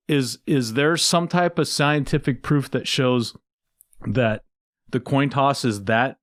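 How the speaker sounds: mock-serious question, a touch of sarcasm; sarcastic. Real, not acted. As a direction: ask with feigned sincerity, breaking into a laugh. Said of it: "obviously I'm being sarcastic".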